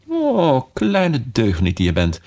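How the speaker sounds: high fond cry of Oh; child scolding a kitten fondly; calling out. Acted. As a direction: exclaim to the naughty kitten. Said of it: "riep Alice".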